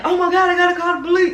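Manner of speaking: high, rushed mock panic; retold freak-out. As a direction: blurt it out in acted panic. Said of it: "I'm freaking out".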